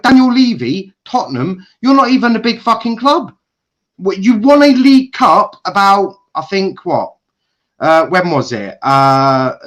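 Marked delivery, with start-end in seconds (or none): 0.0-6.2 loud, high, furious jeering; raging shout. Real, not acted. Football fan yelling at Spurs owner, raging shout. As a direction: shout him down with contempt. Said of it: "Because I am absolutely raging".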